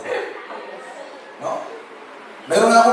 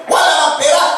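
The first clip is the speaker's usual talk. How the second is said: higher, half-joking scold of a tight-fisted parent; mock scolding; 8 semitones higher than usual. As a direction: throw it back at the child in jest. Parent refusing money to child. (pabirong sermon ng magulang)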